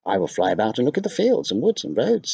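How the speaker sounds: a bird calling down to soothe Laura. Acted. Bird answers.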